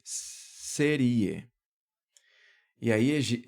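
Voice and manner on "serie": "serie" stressed on the i, se-RI-e; stress without the accent. Shown as a demonstration. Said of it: "se existe essa palavra aqui".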